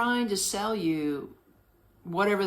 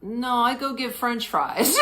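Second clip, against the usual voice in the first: laughing; 4 semitones higher than usual. Retold or imitated. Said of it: "I'm trying to tell her".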